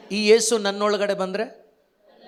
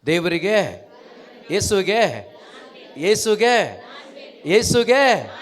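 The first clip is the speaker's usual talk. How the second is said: building call; 2 semitones higher, 4 dB louder, much slower than usual. Shown as a demonstration. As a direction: build it up word by word. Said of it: "ಕೈ ಕೊಟ್ಟು ಹೇಳಿ".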